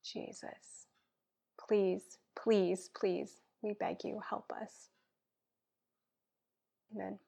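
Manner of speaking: earnest spoken prayer, dropping to a hush at times; heartfelt prayer. Acted. Guest praying for listeners, earnest prayer voice. Prays aloud on podcast.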